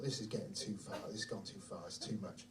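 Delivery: low, hushed serious thought; quietly decide enough is enough; soft, low fatherly concern; grave resolve. Retold or imitated.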